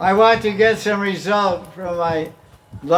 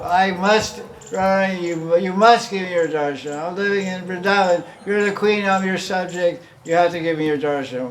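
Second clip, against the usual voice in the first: determined demand; 3 semitones higher than usual. Acted. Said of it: "that determination, that sankalp".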